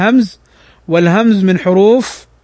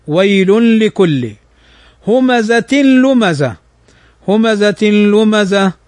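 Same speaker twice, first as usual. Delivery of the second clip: slow chanted tajweed recitation; measured Quranic chant; much slower than usual. Shown as a demonstration. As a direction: recite it slowly with tajweed rules.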